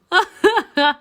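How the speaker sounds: high, loud put-on sobs; fake loud sobbing. Narrator sobs to stop the groom, hammed-up wailing. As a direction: burst out in theatrical sobs. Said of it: "my sobs stopped him".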